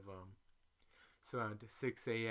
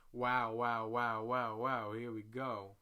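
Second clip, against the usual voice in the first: mock exasperation; 6 dB louder than usual.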